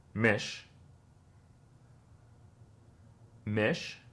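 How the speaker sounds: "mish", then "Otmish", then "Hotmish" added from the back; repeat-after-me drill; build backwards. Shown as a demonstration. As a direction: grow the word from "mish" backward. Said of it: "copycat what I say".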